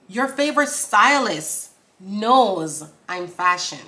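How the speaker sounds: slow, punchy bars with pauses; deliberate lyric recital. Acted. Performing the verse for viewers, slow punchy recital. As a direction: punch the start of each bar.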